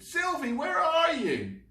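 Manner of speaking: high loud anxious call. Acted. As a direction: call out searching for her. Spike calling out.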